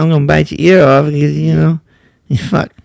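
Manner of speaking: fast, lightly voiced Tyson threat; Mike Tyson. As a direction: rattle it off like mock Tyson. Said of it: "I'm Mike Tyson".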